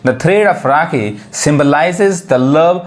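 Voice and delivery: very slow, word-by-word English sentence; slow example reading. Shown as a demonstration. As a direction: spell it out slowly for beginners. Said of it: "अब example देखिए". (बहुत धीमे शब्द-दर-शब्द पढ़ना)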